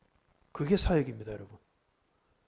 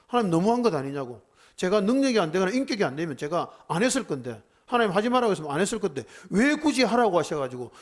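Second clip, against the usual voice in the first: raised, pleading complaint, louder and rising; retold protest to God; 4 semitones higher, 4 dB louder than usual. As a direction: argue with God, voice climbing as the grievance grows. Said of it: "하나님께 얼마나 따졌는지 몰라요". (하나님께 따지듯 높아지는 항의조)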